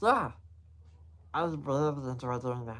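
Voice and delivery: gentle, calming, soft, low soothing voice. Asked about digging holes, the speaker answers in a soft and soothing voice. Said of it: "your voice just get all so- soft and soothing".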